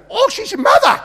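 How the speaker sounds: very high, booming imitation of realizing; loud mock exclamation. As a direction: blurt it out loudly for all to hear. Healer loudly announces the secret.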